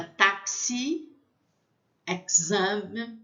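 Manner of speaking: "táxi" and "exame" in French, the X fully sounded. Shown as a demonstration. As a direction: model "táxi", pause, "exame" with crisp French X. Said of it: "pronuncia X".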